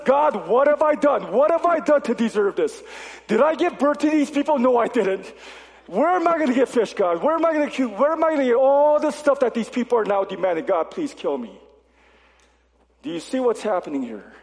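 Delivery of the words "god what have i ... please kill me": exasperated Moses. Retold or imitated. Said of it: "God, he says".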